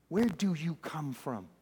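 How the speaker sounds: soft, wary question; hushed questioning. Acted. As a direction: ask it under your breath. Terrified Pilate questions Jesus privately.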